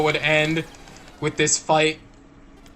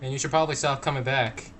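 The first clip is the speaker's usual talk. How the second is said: a hint of a soft, low robot; calm robot character; 5 semitones lower, 6 dB quieter than usual. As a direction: speak quietly as a laid-back robot. Voices game characters chatting.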